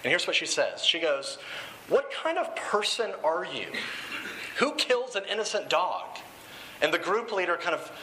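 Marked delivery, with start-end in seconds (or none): 1.9-6.1 higher-pitched, mildly indignant retold challenge; mild accosting. Group member confronting a man about the dog, mildly accosting. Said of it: "this woman starts accosting him".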